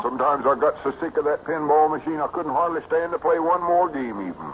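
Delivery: high country lad recounting hardship; Cedric, earnest boy. Acted. Cedric telling of five hard years, boyishly earnest. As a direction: earnestly relive the long struggle.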